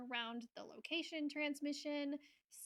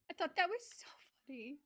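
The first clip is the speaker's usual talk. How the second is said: whispering; 2 semitones higher, much faster than usual. Real, not acted. Whispered aside, laughing.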